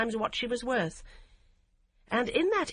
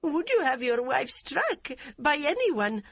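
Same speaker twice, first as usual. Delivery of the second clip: quiet, afflicted; 7 semitones higher than usual. A narrator's reading. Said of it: "in a quiet, more afflicted tone".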